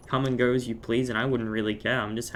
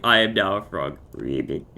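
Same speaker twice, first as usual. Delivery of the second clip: louder mock frog croak, sinking low on Ribbit; croaky frog; 3 semitones lower, 5 dB louder than usual. Player repeating the frog joke to friends, loud croaky frog. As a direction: belt out the frog line, then croak deep. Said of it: "croaky voice".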